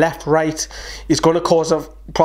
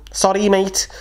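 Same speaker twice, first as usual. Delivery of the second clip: put-on Scouse accent; 4 semitones higher than usual. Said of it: "That's my shite, uh, Scouse accent".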